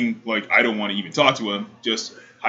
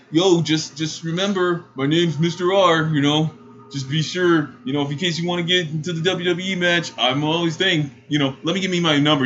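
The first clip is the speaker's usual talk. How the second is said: higher-pitched pestering imitation; mock awkward guy pressing for a number; eager, cringey sales pitch to a crush; cringey suitor; 5 semitones higher than usual. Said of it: "in the most cringiest voice".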